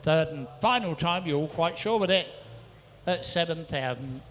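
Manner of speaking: rhythmic rapid-fire bid calling; auctioneer calling. Real, not acted. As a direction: rattle off the bids like an auctioneer. Auctioneer taking bids.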